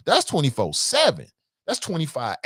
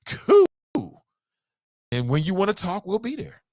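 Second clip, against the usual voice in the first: delighted parent; 5 semitones higher, slower than usual. Acted. Parent glad of silence, high and gleeful. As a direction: squeal it like a relieved parent.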